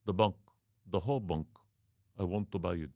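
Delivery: a lightly put-on Arab accent, insistent; the caller's mild fake Arab accent; mock Arab accent. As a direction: keep pressing to buy the bank. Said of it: "yeah, as Arab".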